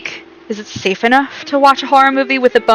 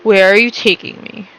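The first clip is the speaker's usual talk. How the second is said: blocked-nose voice; stuffy nose voice; 2 semitones lower than usual. Pretend. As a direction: sound congested and suspicious. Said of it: "trying to sound stuffy".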